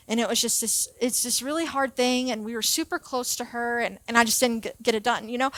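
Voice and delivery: soft, low, halting excuse; subdued confession. Retold or imitated. Student telling coach great-grandma died, subdued.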